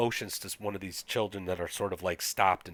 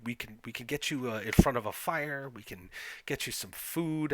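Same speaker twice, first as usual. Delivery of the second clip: smug Scandinavian host, raised pitch; Jens; 4 semitones higher than usual. Acted. Smug leader offers travelers fire and food, higher over-nice voice. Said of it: "softly spoken, smug, Scandinavian".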